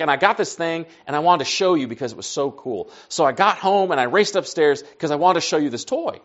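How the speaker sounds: lightly imitated eager little boy; excited. Son explaining why he raced upstairs, excited. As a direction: share it like a kid with a new toy. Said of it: "He's excited about his sticky hand".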